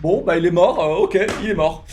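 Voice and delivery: flat, careless "ok he's dead"; indifferent shrug. Retold or imitated. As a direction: toss it off like nobody cares. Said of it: "en mode".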